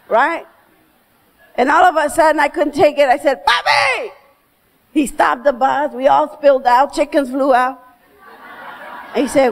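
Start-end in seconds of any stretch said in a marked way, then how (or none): 3.5-4.1 high desperate call of papi; child's shout. Retold or imitated. Girl on hot bus yelling for her father, high shout. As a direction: cry out to stop the bus.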